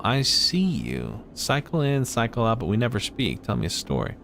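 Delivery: a cook who sees all, coaxing a tale; lightly voiced cook. Streamer voices cook Emphis.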